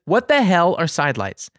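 mild mock outburst; retold angry demand. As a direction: re-enact a fed-up customer demanding an answer. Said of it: "I was so mad, and I screamed".

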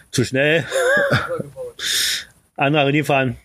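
terse fragments with long pauses; kurz und bündig. Retold or imitated. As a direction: imitate the wife's bare-bones joke delivery. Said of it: "kurz und bündig, sagt meine Frau". (knapp, mit langen Pausen vorgetragen)

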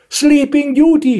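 high, drawn-out excited cry; enthusiastic. A narrator's reading. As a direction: call it out thrilled. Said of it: "rief Blaustrümpfchen begeistert". (begeisterter, gedehnter Ruf)

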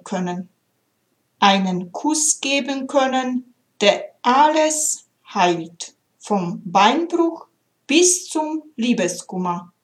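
measured storytelling read with gentle pauses; heartfelt recital of a story poem. A narrator's reading. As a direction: read it like a tender fable. Reads a poem aloud.

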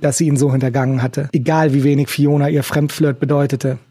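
ordinary delivery

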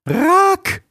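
high, loud scolding call of a name; loud reproachful name call; sharp call. Acted. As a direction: snap him out of his singing.

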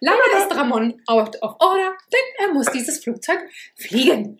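flight attendant. Pretend. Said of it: "ich mach die Stewardess".

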